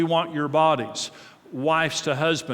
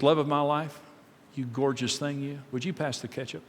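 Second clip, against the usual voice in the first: soft, doting request to his wife; a husband softly sweet-talking his wife over lunch; tender sweet talk; 4 dB quieter than usual. Retold or imitated. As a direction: lay on the affection as you ask.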